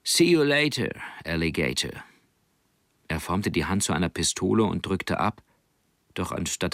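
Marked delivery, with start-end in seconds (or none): 0.0-2.0 höher angesetzt, zum Ende leiser auslaufend; lässiger Seemannsgruß. Acted. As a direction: ein Seemann verabschiedet sich verschmitzt. Martin verabschiedet sich lässig. (Onkel Martin verabschiedet sich locker vom Jungen)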